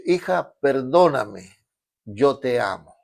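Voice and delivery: slow, tender father's plea for forgiveness. Retold or imitated. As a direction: gently beg the daughter. Father begs daughter's forgiveness.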